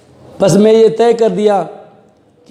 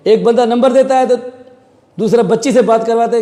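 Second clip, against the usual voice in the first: chuckling through the words, pitched higher; laughing; 5 semitones higher than usual. Real, not acted. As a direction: laugh at how obvious the trick was. Laughs at kidnappers' obvious trick.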